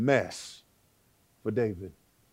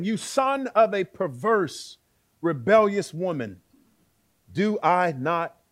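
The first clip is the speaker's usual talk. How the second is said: slow, louder, higher curse; angry king; 5 semitones higher, 4 dB louder, slower than usual. Acted. Saul cursing Jonathan at the banquet, slow and angry. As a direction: spit out the insult slowly.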